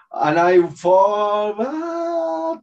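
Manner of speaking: drawn-out word leaping into a high "ah"; falling cry. Retold or imitated. Telling of falling from a plane, mock cry. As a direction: stretch it out, then a mock falling wail.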